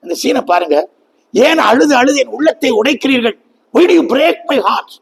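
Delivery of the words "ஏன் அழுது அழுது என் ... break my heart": raised pitch, stretched reproachful question; acted anguished Paul. Paul asking weeping friends why, anguished appeal. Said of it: "பவுல் கேட்கிறார்".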